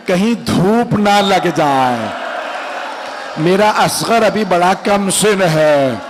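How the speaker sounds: sorrowful majlis recitation, pleading at times; lamenting recitation. Acted. Preacher telling the infant's martyrdom to mourners, lamenting. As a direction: draw the mourners into the grief.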